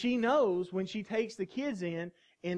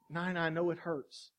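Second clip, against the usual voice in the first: God comforting. Acted. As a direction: speak as a loving God holding a hurting child. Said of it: "God's there the whole time saying".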